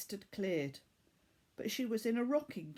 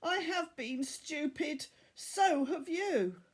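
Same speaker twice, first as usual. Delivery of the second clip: put-on higher boy's voice, half laughing, half sobbing; relief and a sob; 7 semitones higher, slower than usual. Tariq to Laura, relieved she's awake, voice close to a sob. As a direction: drag the last words out, torn between relief and tears. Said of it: "somewhere between relief and a sob".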